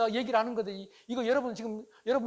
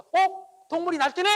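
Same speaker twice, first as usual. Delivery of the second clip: much higher and louder, a startled mock cry; mock inner exclamation; 8 semitones higher, 11 dB louder, slower than usual. Husband watching his wife's temper flare, mock startled cry. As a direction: exclaim in your head as if an animal got loose. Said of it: "마음속으로 이렇게 외칩니다".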